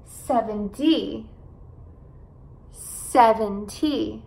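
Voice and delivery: SEVENTY slowly, weight on SEV; careful drawn-out model of SEVENTY; SEV-en-ty, first syllable leads in SEVENTY; stress on first syllable. Shown as a demonstration. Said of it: "enfatizar as sílabas no começo".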